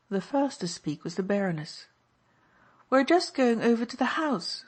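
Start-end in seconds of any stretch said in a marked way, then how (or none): 2.9-4.6 cordially. A narrator's reading. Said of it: "she said cordially".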